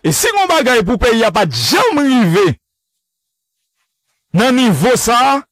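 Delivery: Jimmy Cherizier voice. Retold or imitated. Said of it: "Jimmy Cherizier, barbecue".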